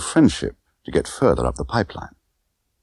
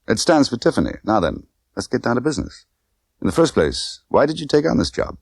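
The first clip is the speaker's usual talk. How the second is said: Tiffany voice; 6 semitones higher than usual. Acted.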